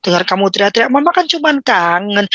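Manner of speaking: whiny mother. Retold or imitated. A mother complaining her child is shouting, mock hurt. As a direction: play the wounded, tired mom.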